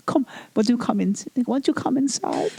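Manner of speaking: high, luring, teasing invitation; seductive come-in voice. Pretend. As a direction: beckon him in, sweetly sly.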